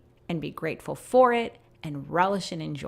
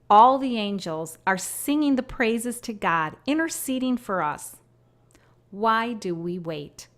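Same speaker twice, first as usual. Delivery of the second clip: unhurried, solemn inspirational reading; devotional reading. Acted. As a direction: read it like a heartfelt prayer. Reads her written prophecy aloud.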